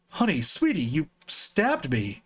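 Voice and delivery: stunned. Acted. Villain shocked after stabbing.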